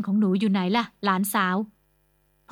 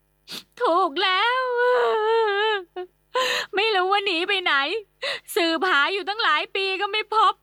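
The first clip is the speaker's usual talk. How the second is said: tearful lament, pitched high; wailing in tears; 9 semitones higher than usual. Acted. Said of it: "อาเซียปล่อยออกมาโฮใหญ่".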